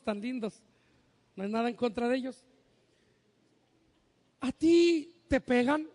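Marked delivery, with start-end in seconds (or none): 4.4-5.9 sweet psychologist voice. Retold or imitated. Psychologist questioning a small child.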